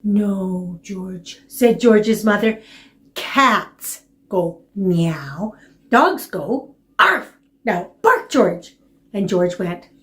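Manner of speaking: patient mother teaching puppy; slow, coaxing storytime mother; reading to a toddler. Acted.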